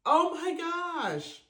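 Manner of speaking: high, loud, slow, choked-up oh; close to tears. Real, not acted. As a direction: voice welling up near tears. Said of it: "oh, I'm about to cry".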